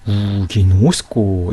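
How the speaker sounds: 우기노스코 linked as one long word, vowels drawn out; one chunk. Shown as a demonstration. Teacher shows how to read it, 우기노스코 as one joined word. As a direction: glide through 우기노스코 without a break after 우. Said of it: "한 덩어리처럼 이렇게".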